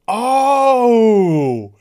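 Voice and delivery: long, loud mock revelation; loud dawning realisation. Friend misreading the heroine's confession, loud realisation. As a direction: draw out the oh as it clicks.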